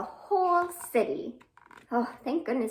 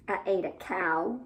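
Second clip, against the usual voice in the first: lower, lightly voiced worm; 6 semitones lower than usual. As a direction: answer like a sheepish little worm. Worm answers in the rhyme.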